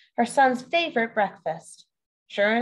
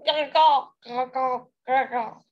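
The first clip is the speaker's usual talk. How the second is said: crying frogs; slower than usual. Acted. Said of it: "went to the stream and cried".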